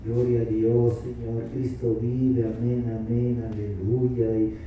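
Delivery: mock someone mumbling filler praises; mumbled rote prayer. Pastor imitating people who run out of words. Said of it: "yo creo que se dice".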